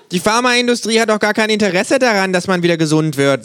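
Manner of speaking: high, insistent complaining voice; kangaroo theorist. Acted. Kangaroo over tea accusing the drug industry, insistent voice. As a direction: press the accusation with conviction.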